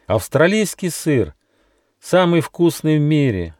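high-pitched, blissful mouse; overjoyed. A narrator's reading. Mouse Gosha sees heaps of cheese, overjoyed. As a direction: marvel in a high, delighted voice. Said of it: "чуть не умер от счастья".

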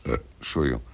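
burp. Acted. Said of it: "rülpsen Sie denn fortwährend so ekelhaft".

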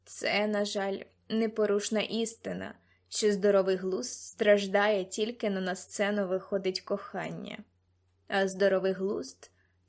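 put-on understated older-mentor voice, full of concern; concerned fatherly mentor. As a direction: gently caution a young girl in a mentor's voice.

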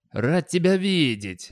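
high, drawn-out jubilant greeting. A narrator's reading. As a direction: greet with slow, rising exultation. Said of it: "ликовал Достабль".

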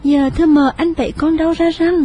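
high, fast frightened asking; alarmed question. A narrator's reading. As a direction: ask in a panic. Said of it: "Duyên lo sợ hốt hoảng hỏi". (hốt hoảng hỏi dồn)

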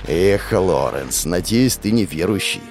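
calm threat before the storm; ominous. Acted. Hero's menacing inner monologue.

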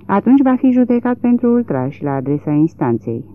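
a touch of indignant exclamation; exclaiming. Acted. Judge to the court, exclaiming about contempt. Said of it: "exclamă judecătorul".

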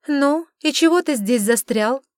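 irritated witch asking why he's stuck here; displeased. A narrator's reading. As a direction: snap at him for lingering. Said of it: "недовольно поинтересовалась Ри".

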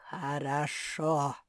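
low, slow, syllable by syllable; booming bass. Acted. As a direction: boom it out like a giant stone. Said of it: "по слогам прогудел гулкий бас". (гулкий бас по слогам)

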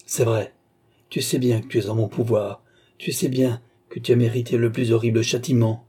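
accusing, emphatic indictment; contained anger, building; rising anger. Acted. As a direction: list the crimes with growing indignation. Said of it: "qui s'enivrait insensiblement au feu de sa propre colère".

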